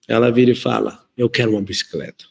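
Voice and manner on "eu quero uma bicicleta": a hint of a bossy, big-voiced little girl; lightly voiced stern little daughter making her demand; imitating a gruff toddler. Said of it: "Braba, vozona mesmo".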